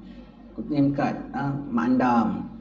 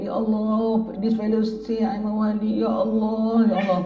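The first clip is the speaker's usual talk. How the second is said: higher voice calling on God in alarm; mock cry out; 6 semitones higher, slower than usual. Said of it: "Terus dia menjerit". (jeritan cemas yang dilakonkan)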